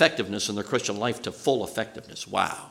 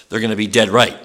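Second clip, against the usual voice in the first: "dead" hit louder in "dead right"; stress on dead; 2 semitones lower, 5 dB louder than usual. Real, not acted. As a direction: lean hard on the word "dead". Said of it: "with an emphasis on the dead".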